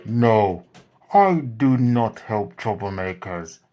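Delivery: loud, stern owl refusal; firm refusal. Acted. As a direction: refuse forcefully, no argument.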